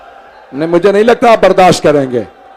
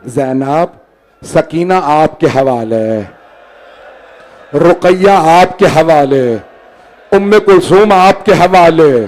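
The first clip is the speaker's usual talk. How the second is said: tender farewell; 3 semitones lower, slower than usual. Acted. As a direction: hand each one over gently and slowly. Husain's farewell entrusting the family.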